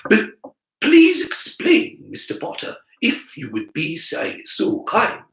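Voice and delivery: slow, arch request; dry professor. Acted. Professor dryly inviting the boy to explain, slow. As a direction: ask him with prim irony.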